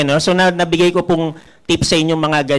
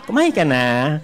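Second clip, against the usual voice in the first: gentle; 5 semitones lower than usual. Retold or imitated. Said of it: "gentle ka dapat dyan".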